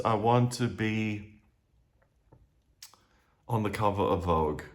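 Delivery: mock dreamy wishing; naive wish. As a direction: linger on it like a naive fantasy. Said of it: "So it's not just".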